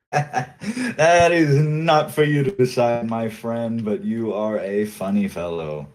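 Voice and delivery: slow, lightly voiced amused captain; a hint of lofty amusement; amused pirate captain. Pirate captain brushes off Mitch's threat, lightly amused. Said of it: "He laughs in your face and says".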